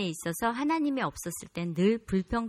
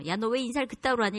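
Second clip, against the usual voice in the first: fast, higher-pitched telling-off; imitated hot-tempered senior, quick and raised; mock scolding; 4 semitones higher, faster than usual. Shown as a demonstration. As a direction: rattle off a quick demo rebuke. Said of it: "이런 거는 무서운 게 아니었었어요".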